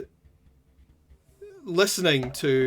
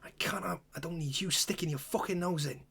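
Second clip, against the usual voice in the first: hushed angry warning; 3 semitones higher, 4 dB quieter than usual. Acted. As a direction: keep it secret but furious. Ethel secretly warns off intruder.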